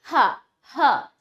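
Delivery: अहा ending in a clear हा; breathy h sound. Shown as a demonstration. Teacher showing the sound in अहा, h sound. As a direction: say हा with an audible h. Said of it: "हा का उच्चारण लगता है".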